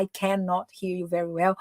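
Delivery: "cannot" said in full, both syllables sounded; careful, uncontracted "cannot"; full form cannot. Shown as a demonstration. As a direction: spell out "cannot" as two clear beats. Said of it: "Não precisa falar".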